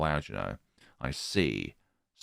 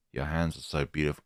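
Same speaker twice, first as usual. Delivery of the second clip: creepy teacher voice; 3 dB quieter, faster than usual. Acted.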